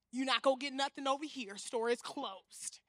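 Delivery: mock firm refusal; sassy refusal. Quoting herself refusing men.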